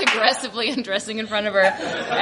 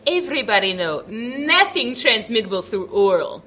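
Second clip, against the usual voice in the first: nurse's flat claim; 4 semitones lower than usual. Retold or imitated. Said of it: "she looked at me and she goes".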